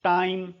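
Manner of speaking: टाइम said with a clear ai diphthong; vowel demo. Shown as a demonstration. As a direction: say टाइम so the ai is heard. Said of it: "आई बोलते हैं इसको". (टाइम में आई साफ़ बोलना)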